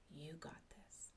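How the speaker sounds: soft, unvoiced whisper; hushed whisper of encouragement. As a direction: breathe the words gently like a son reassuring. Son's tender three words.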